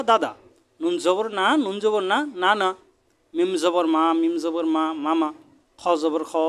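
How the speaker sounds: measured teacher's recitation, letter then syllable; chanted alphabet-lesson cadence; spelling drill. Shown as a demonstration. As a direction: lift each spelled syllable, then join them.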